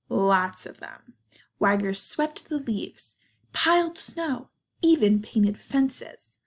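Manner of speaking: expressive storybook narration with pauses; reading to children. A narrator's reading. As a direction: tell it to kids, lifting and stretching key words. Reads picture book to children.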